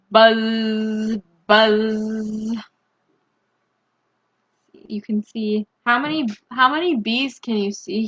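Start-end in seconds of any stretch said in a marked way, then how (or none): 0.1-2.6 buzzing like a bee. Shown as a demonstration. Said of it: "How about you?".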